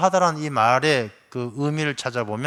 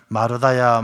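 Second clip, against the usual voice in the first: first call, louder, reaching across the room; louder summoning call, a little lower; calling out a name; 3 semitones lower, 6 dB louder, slower than usual. Retold or imitated. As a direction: call her name to get her attention. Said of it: "그렇게 부르셔요".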